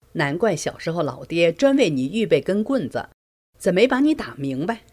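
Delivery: wife scolding her husband for his habit, angrily; angry scolding. Retold or imitated. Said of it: "我气恼得直呼其名".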